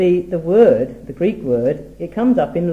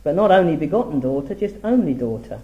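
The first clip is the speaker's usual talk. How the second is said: only leaned on in both phrases; stress on only. Shown as a demonstration. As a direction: hit the word only to contrast begotten. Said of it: "Same word".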